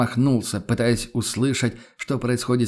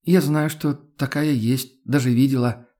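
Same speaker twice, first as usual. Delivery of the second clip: hesitant; 3 semitones higher than usual. Acted. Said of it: "нерешительно согласилась беглянка".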